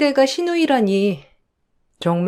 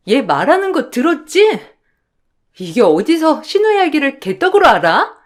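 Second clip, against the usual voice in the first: snapping, scornful sister-in-law in a heated quarrel; a touch of shrill contempt, talking down; angry sister-in-law; 3 semitones higher than usual. Acted. Sister-in-law scolding her brother's wife, sharply angry.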